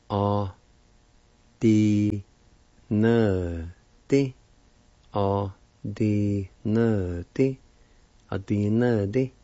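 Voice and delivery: Cherokee word "A-D-N-D" said carefully syllable by syllable; Cherokee word for pitch. Shown as a demonstration. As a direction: say "A-D-N-D" slowly and clearly for learners, a-di-na-di. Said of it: "it's pronounced like this".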